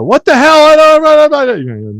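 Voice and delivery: high-pitched flustered what-the-hell; baffled outburst. Retold or imitated. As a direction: play the lost listener sputtering in shock. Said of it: "they can go".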